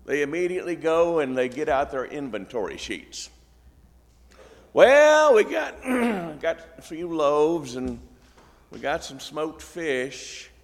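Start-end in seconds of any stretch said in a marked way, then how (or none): 4.7-10.5 flustered disciples. Retold or imitated. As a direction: fumble through a short list of food. Disciples read out their inventory.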